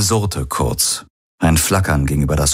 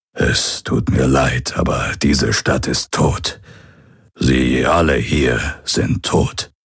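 lightly voiced old pirate breaking grim news; understated sorrow, slowing on the hard words. (leicht angedeuteter alter Pirat, betroffen)

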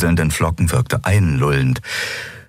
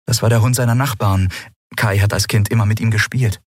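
put-on lightly higher young woman; Lien's voice; 6 semitones higher than usual. A narrator's reading. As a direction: read Lien gently remembering. Lien voiced in story.

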